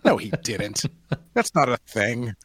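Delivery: high startled what; incredulous. Retold or imitated. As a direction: scoff in disbelief. Incredulous retort.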